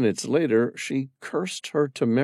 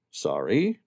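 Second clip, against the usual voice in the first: Sam's voice; 3 semitones lower than usual. Acted. Sam to Amira, puzzled question. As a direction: lower man's voice, puzzled "Sorry?" rising.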